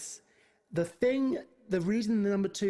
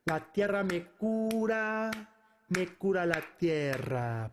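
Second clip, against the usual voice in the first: spoken without melody; 3 semitones lower than usual. Shown as a demonstration. Teacher walks through the tough verse, spoken without melody. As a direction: say each phrase out, unsung. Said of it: "With melody".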